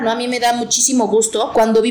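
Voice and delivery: normal talking voice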